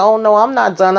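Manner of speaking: gloat, just getting started; menacing leader. Retold or imitated. Leader escalating threat.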